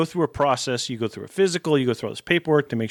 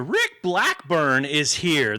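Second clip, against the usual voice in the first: slow drawn out; much slower than usual. Real, not acted. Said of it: "That is fantastic, Rick".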